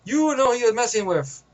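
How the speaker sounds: lightly mimicked scolding older man; imitating indignant man. White-bearded man warning the young guy, mock indignant. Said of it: "he said just like that".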